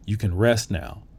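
softly retold comfort, easing down; quiet, tender imitation of a consoling wife; gentle reassurance. Wife to her dying husband, gently reassuring. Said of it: "She comes up and smiles".

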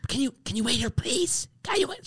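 high, hushed but pushy plea; mock loud whisper. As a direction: imitate a woman stage-whispering too loudly. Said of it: "she's whispering".

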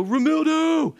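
yelling his name. Retold or imitated. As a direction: belt his name out cheerfully. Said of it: "every time I'd yell at him".

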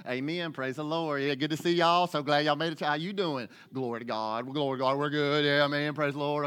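a hint of a fake-cheerful churchgoer; Sunday front. Churchgoer greeting folks at the door, light fake-cheerful. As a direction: put on the Sunday smile greeting. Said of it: "our Sunday front on".

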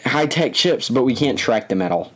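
mocking the company's logic; sarcastic mock voice. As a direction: sneer it like a sarcastic quote. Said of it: "I'm just saying, like, I mean".

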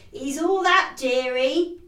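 a hint of chatty cockney. Quoting the pub woman she loved, in cockney. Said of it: "described as a glorious old cockney".

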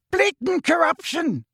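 high, slow bellow; roaring. Acted. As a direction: roar it from the wall. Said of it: "roared the portrait".

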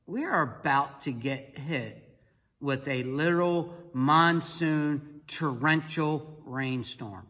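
slow, measured warning; dramatic warning. Retold or imitated. Coach warning himself of the coming storm, slow and dramatic. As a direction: draw out the words for emphasis.

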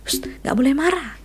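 high, mildly hushing parent voice; a hint of a parent shushing an angry child; soothing parent hushing. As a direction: lightly play a parent telling a child to stop being angry. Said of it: "kadang-kadang kita bilang".

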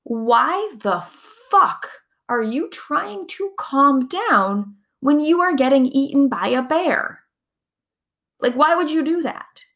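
indignant, like the body can't believe you'd calm down now; outraged body voice. Retold or imitated. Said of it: "your body is like".

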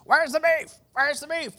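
put-on high, loud old-lady scream; hammed-up old lady shrieking. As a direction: yell it at the drive-thru like a cranky old lady. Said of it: "she's just screaming at the drive-thru attendants".

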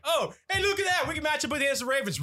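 fake-hopeful fan who already knows they'll lose; mock excitement. Mocking his team's playoff hopes.

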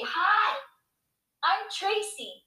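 put-on high, small little-girl introduction; soft, high child asking to join in; fake brave child. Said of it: "the fake brave shoulders".

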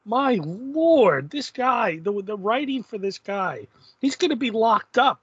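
aghast at what he's reading; appalled disbelief. Retold or imitated. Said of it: "And I'm like".

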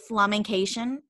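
"flamencation" ending like "nation"; made-up -ation ending. Retold or imitated. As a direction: turn flamenco into fake English, "flamencation". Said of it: "always end things in Asian".

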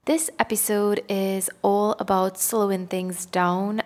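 slow, measured podcast delivery. Real, not acted. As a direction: take your time, consciously slowing down. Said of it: "trying to speak a little bit slower".

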